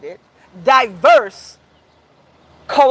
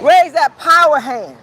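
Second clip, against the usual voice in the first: rousing call; 2 semitones higher, 3 dB louder, slower than usual. Real, not acted. Rally speaker rousing the crowd.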